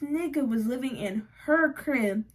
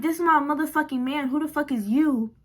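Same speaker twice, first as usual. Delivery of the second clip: mock angry girlfriend; 4 semitones higher, 3 dB louder, faster than usual. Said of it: "And she like".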